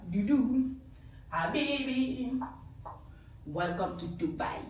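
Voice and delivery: slow, lazy, showy welcome; mock diva. Showing off her Dubai look to viewers, mock diva. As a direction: purr it like a lightly played star. Playing the glamorous Dubai guest.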